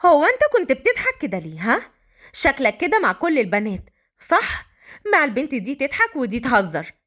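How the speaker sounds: jealous woman confronting him; needling, accusatory questions. Acted. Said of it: "وقالت بغيرة".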